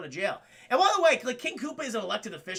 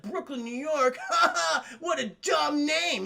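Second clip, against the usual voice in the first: higher, mocking villain laugh through the words; mock scornful laughing; 6 semitones higher, 4 dB louder than usual. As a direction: ridicule it with a hammed-up laugh. Villain laughs at the heroes' hometown.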